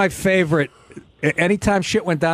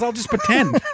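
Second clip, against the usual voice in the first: higher, far voice as Grodin; Grodin impression; 8 semitones higher than usual. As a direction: play Grodin asking to fake the cuffs. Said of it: "He goes".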